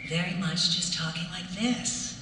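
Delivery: put-on cold, flat evil robot girl; robot villain voice. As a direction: speak like an emotionless killing machine. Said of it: "sounded like a robot".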